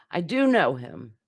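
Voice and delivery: "do" stressed with a falling tune in "I do know him"; firm emphasis on do; emphatic do. Shown as a demonstration. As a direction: insist by hitting do, "I do know him". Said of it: "for emphasis".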